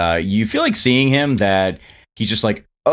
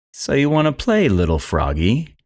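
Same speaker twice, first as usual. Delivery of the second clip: very calm, light, high voice; 5 semitones higher than usual. Narrating a scene where Virex turns and speaks, calm Virex voice. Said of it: "turn very calmly and goes".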